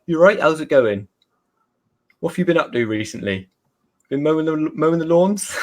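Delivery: put-on broad Somerset West Country accent, lightly done. Imitating his family back home in a broad Somerset accent. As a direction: greet them like a Somerset farmer. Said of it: "a lot of my family sound like this".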